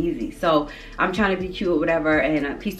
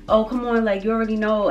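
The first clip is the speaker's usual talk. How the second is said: lightly imitating a pushy friend, higher pitched; coaxing peer pressure; 5 semitones higher than usual. Companion pushing her to smoke more, mock coaxing. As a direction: coax in a raised, cajoling voice.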